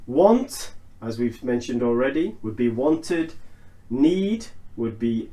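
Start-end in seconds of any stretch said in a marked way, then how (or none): 2.7-3.3 "wanted" ending in "tid". Shown as a demonstration. Teacher giving another example, "wanted" ending in tid. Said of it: "note how I'm pronouncing the I D".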